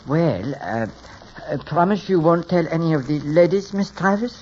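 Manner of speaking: put-on hesitant, French-accented plea; phony French accent. Hairdresser asking his client to keep a secret, phony French accent. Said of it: "without the phony French accent".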